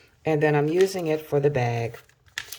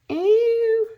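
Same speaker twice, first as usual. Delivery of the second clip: disgusted ew; 7 dB louder than usual. Real, not acted. Reacting to the paper side.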